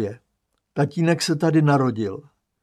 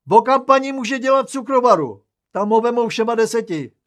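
high, loud cry of an idea; exclaiming; 9 semitones higher, 5 dB louder than usual. Acted. Aunt suggesting work for the father, loud eager exclamation. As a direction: shout it out eagerly, much higher. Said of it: "vykřikne teta".

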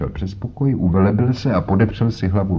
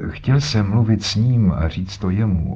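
put-on stubborn old man. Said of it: "s nerůdklivou stařeckou umíněností".

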